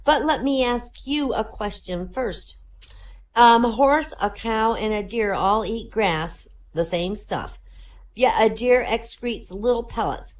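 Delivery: put-on high, measured little-girl voice. Girl quizzing a stranger on the plane, high little-girl voice. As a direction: pose the puzzle as a precise little girl. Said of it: "the girl says".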